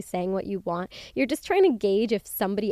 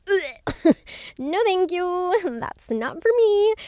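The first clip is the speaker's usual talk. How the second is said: higher, laughing no thanks; laughing refusal; 10 semitones higher, 4 dB louder, slower than usual. Retold or imitated. Turning down the club with friends, laughing and higher. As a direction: brush off the club idea with a laugh.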